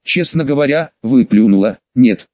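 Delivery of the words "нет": a louder, lower growled no; bitter, angry no through pity. Acted. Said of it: "с жалостью и гневом прорычал Сириус". (гневно прорычать «Нет» с жалостью)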